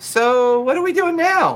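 tiny, very high squeaky voice with bouncing pitch. Narrating the scene as Puck asks the other four: Puck's squeaky little voice. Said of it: "you just hear her little voice squeak".

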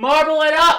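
high, loud yelling. Naming a marble video game late at night, screaming. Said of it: "Why are you screaming".

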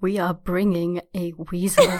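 firm, severe whisper. In a tabletop game, Belker leans over another character's shoulder, sternly whispering. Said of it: "very sternly whispering".

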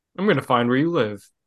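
put-on calm, emotionless, matter-of-fact tone, no malice. Retelling how someone delivered a threat, imitating it without any hint of malice. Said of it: "Just without any hint of malice".

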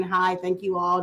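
put-on speaking in an American accent. Describing switching accents for different characters, in an american accent. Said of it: "I'll speak like an American".

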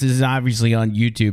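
ordinary talk, nothing marked

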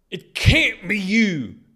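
shrill, high, booming, drawn-out panicked shout. A man faces a crawling thing he once knew, panicked shout. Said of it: "he shouted at it, panic in his voice".

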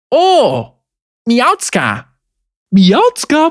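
laughing through the words. A dean cuddles a cat and speaks to it: chuckling. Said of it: "Gluckste die Dekanin".

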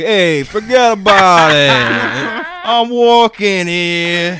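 very loud, slow, bad put-on Boston accent. Retelling what a guy in Boston said, in a bad Boston accent. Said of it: "how bad my Boston accent was".

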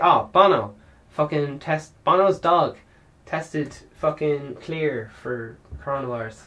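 usual speaking voice

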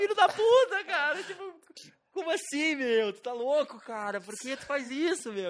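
very high-pitched, shrill, slow furious tirade. Retelling a furious message to a friend: retelling own angry outburst. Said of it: "Eu fiquei puto".

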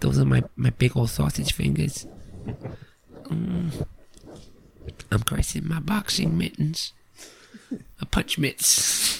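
slow, high, creaky ASMR voice, drawn out. Joking about an ASMR channel, doing Mike Tyson ASMR voice. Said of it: "Mike Tyson's A S M R".

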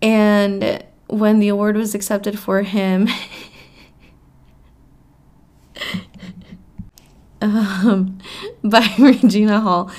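talking through laughter. Telling about an award accepted for an absent winner, laughing while talking. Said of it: "I'm sorry I'm laughing".

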